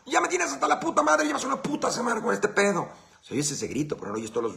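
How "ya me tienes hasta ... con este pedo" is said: very high, very loud furious yell, easing off; exasperated parent yelling. Retold or imitated. Parent at wits' end screaming at the kid, furious yell. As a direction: explode like a parent at the end of a long morning.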